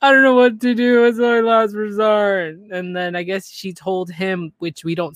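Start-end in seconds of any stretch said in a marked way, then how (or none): 0.0-2.6 high, loud, desperate wail; mock desperate cry. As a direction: cry it out like it's a last resort. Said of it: "on the phone with Tom, like".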